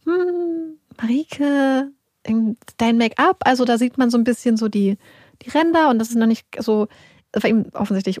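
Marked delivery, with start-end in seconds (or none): 0.0-6.9 a hint of a hesitant, careful boyfriend; gently breaking bad news, lightly voiced; mildly imitating a cautious boyfriend. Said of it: "ganz vorsichtig so".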